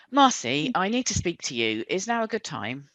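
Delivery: retrying the talk with Marcy, calmer. Acted. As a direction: bring it down and ask gently. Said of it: "lower your voice".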